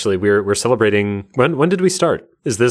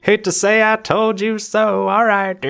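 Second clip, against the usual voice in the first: smug; 12 semitones higher than usual. Pretend. Gloating joke after being right.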